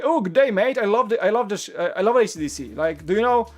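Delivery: put-on lively amateur Australian accent. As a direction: attempt a friendly Aussie greeting. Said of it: "at the booth was Australian".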